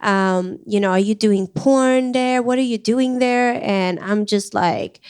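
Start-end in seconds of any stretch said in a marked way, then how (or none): 0.0-3.6 panicked mom. Retold or imitated. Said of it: "like, freaking out".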